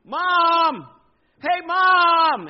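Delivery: high, loud drawn-out holler; full-volume kid's yell; yelling for Mom. Acted. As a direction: call through the house like a kid after Mom. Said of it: "and he's yelling".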